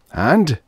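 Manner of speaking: "And" hit high and held; pointed. A narrator's reading. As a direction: lean on "And" to cut in pointedly. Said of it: "said Mangler pointedly".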